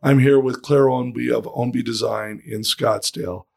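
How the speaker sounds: hoarse, worn-out voice; talking with almost no voice left; lost voice. Real, not acted. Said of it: "I have no voice".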